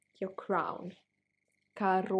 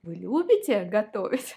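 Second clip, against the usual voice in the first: Вы любите готовить gabbled fast and loud, all run together; rushed wrong way; 6 dB louder, faster than usual. Shown as a demonstration. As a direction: rattle off Вы любите готовить too quickly, the way not to. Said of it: "And like that".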